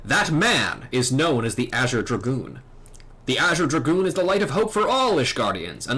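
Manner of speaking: lightly acted solemn knightly elder; dragoon mentor. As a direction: explain ancient lore with measured gravity. Voices dragoon mentor's long speech.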